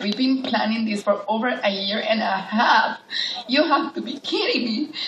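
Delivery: words through a laugh, rising high; laughing disbelief. Retold or imitated. Mother scolding her daughter through a laugh.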